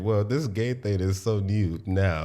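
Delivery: lightly voiced Honduran accent, slowed down; a hint of the classmate's Honduran accent, drawn out slowly; imitating her accent. Quoting a classmate from Long Beach, light Honduran accent. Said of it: "She got the little accent".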